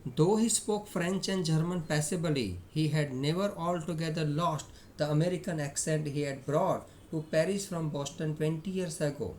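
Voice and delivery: slow, measured read-aloud; reading story aloud. A narrator's reading. Teacher reads the story text to students, measured reading. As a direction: read it out slowly, phrase by phrase.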